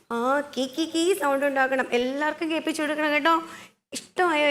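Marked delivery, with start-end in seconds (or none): 0.4-1.1 brief imitated parrot chirps; light parrot call. Shown as a demonstration. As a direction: show the parrot sound lightly, mid-instruction. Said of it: "ഇതുപോലെ".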